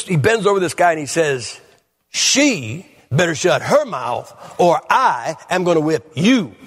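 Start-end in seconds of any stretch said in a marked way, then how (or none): 2.1-6.6 menacing threat. Retold or imitated. Preacher bending over a man in the pew, slow threat. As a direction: lean in and threaten him slowly.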